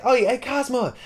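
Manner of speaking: very high sing-out to a friend; high, playful mock announcement; gleeful calling out. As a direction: imitate someone excitedly tattling across the room. Aqua calling out to Cosmo.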